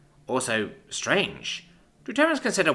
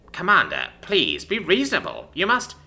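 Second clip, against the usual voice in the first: pleading; 7 semitones higher than usual. A narrator's reading. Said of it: "I begin pleading".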